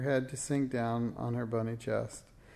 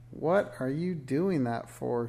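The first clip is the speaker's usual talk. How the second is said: demanding; slower than usual. Acted. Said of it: "she demanded".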